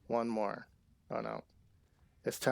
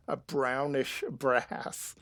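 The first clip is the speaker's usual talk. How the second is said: laughing; much slower than usual. Real, not acted.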